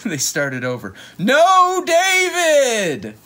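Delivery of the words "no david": high, loud scolding cry; teacher's shout. Acted. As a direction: yell it like a fed-up teacher. Teacher scolding in read book.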